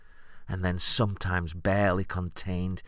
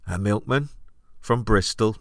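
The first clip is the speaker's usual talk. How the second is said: louder, mock-disbelieving question; incredulous scorn; 3 semitones higher, 4 dB louder than usual. Comic pushing back at a failing audience, incredulous. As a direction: repeat it as if it's a useless suggestion.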